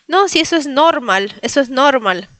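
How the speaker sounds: put-on light Polish accent, "normal" stressed on NOR; husband's Polish accent. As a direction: imitate a Polish husband's first-syllable stress. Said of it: "siempre tiene su acento polaco y me dice". (leve acento polaco imitado, "NORmal")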